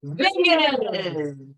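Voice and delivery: builds from soft to a loud, slow call. Shown as a demonstration. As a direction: start soft, swell to full power. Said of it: "start softly and build in power".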